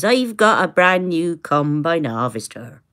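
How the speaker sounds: Somerset accent. Shown as a demonstration. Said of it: "Yes, it was a song".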